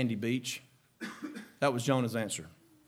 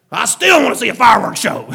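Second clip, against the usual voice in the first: sulking Jonah; 7 semitones higher, 12 dB louder than usual. Acted.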